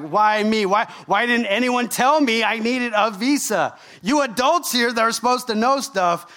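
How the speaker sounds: aggrieved protest, hammed up a little; frustrated. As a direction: act out a mildly indignant "why me" whine.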